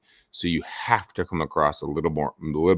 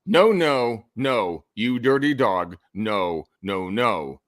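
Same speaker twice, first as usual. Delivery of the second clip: flat serious no; 3 semitones higher, 4 dB louder, slower than usual. Retold or imitated. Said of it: "when it gets read, it's like".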